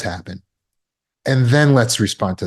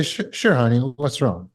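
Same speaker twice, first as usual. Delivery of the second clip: calm caring reply. Shown as a demonstration. Father calmly answers his daughter's worried question, gentle. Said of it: "Watch the difference here".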